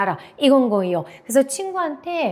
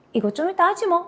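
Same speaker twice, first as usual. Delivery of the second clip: light, higher-pitched casual line; playful brush-off; 7 semitones higher than usual. Acted. Teacher voicing a joking remark to a friend, playful. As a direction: toss it off jokingly. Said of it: "장난으로 던지고".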